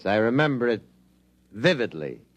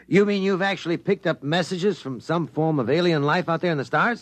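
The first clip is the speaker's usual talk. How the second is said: amazed disbelief; 6 semitones higher than usual. Acted. Reporter hears of alien messages.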